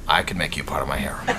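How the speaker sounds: low, hushed, hammed-up lecherous purr; mock-sleazy sweet talk, low and hushed; mock-seductive come-on. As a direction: play the creepy seducer, sinking toward a whisper. Charlie playfully creeps on Stella.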